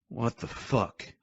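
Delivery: sleepy groan; groaned curse. Acted. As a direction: groan it out, half asleep. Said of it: "We all groaned out".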